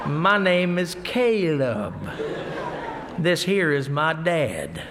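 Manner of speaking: slow, laughing imitation of his son; exaggeratedly slow. Preacher imitates his nervous son overcorrecting, slow and laughing. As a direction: stretch each word out on purpose. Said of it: "Just slow it down".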